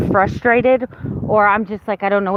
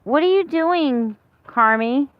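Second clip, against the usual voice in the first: calling the dog; 6 semitones higher than usual. Real, not acted.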